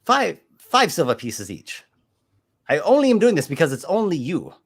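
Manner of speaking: butter him up to close the sale; pushy merchant. Acted. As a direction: GM voicing a smooth-talking shell merchant. Merchant NPC voice.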